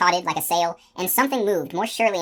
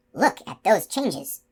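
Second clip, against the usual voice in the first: slow, wondering and exposed; awed, naked voice; 3 semitones higher, much slower than usual. Acted. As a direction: let the voice go bare with awe. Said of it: "His voice was as naked as a baby bird".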